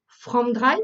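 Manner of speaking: English words in a French accent; poor English accent. Real, not acted. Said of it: "Mon accent anglais est pas top".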